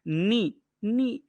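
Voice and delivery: नी said slowly on its own, twice; teacher's slow model of नी; syllable isolated. Shown as a demonstration. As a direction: sound out नी as a separate beat, pause, repeat. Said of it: "छोटी नी".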